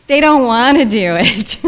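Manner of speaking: drawn-out whining complaint, loud and high; whiny voice. Shown as a demonstration. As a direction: whine it like a sulky pharmacy. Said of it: "I do my whiny voice".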